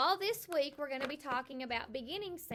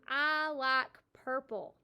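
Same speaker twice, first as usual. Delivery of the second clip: slow model sentence; 5 dB louder, slower than usual. Shown as a demonstration. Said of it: "So I might say".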